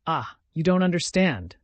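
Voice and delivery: despairing outburst. A narrator's reading. Sonia despairs that he cannot understand, rising outburst. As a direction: push it out in despair. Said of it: "as though in despair".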